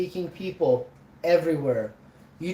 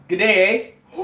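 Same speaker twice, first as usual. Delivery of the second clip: put-on Canadian accent; 5 dB louder than usual. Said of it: "and Canadian too".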